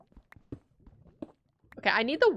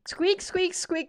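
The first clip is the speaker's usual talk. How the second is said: hamster squeaks; 7 semitones higher, slower than usual. Pretend. Voicing her hamster, high squeaks. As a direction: squeak like a tiny pet hamster. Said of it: "Translation from the day".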